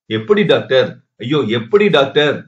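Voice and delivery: usual speaking voice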